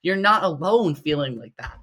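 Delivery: rally nervous competitors with a high, loud push; impassioned reassurance. Real, not acted.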